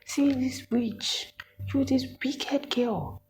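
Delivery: high, slow, mocking scold of the wicked girl; angry lecturer voice. Lecturer scolding the student she calls a witch, high and slow. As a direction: drag it out like a spiteful old woman scolding. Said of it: "this woman started to say".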